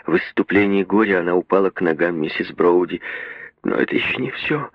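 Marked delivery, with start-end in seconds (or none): 3.6-4.7 sobbing. A narrator's reading. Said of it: "рыдала она".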